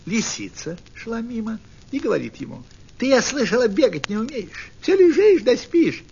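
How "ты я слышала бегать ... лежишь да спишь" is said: teasing fox. Acted. Fox taunts the burbot.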